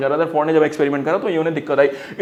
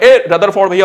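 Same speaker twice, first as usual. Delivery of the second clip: calling out; 5 dB louder than usual. Retold or imitated. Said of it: "पीछे से आवाज लगा रहे हैं".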